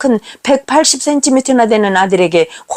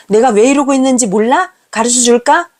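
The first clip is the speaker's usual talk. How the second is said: snapping at mother; 3 semitones higher than usual. Retold or imitated. Son blaming his mother for everything, angry and higher. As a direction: fling the blame at her. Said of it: "쏘아붙입니다".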